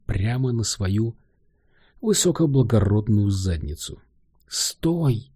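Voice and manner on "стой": shouting. A narrator's reading. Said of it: "кричала та".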